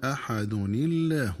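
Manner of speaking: slow, joined أحد الله with a kasra on the nun; nun kasra link. Shown as a demonstration. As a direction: say أحد الله as أحدنِ لله, nun with kasra, hamza dropped, thin lam. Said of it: "بكسر نون التنوين".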